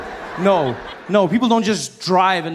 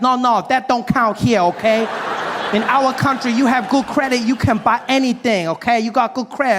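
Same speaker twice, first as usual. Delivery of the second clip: higher, insistent mock Asian accent; Asian car dealer; 6 semitones higher than usual. Dealer explaining credit to customer, insistent mock Asian accent. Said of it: "there's this Asian gentleman helping me".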